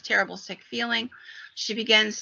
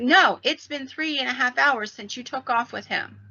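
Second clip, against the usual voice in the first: higher, exasperated insistence; insistent correction; 4 semitones higher than usual. Retold or imitated. Husband correcting his wife on the time, insistent correction. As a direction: contradict firmly, pitch lifted.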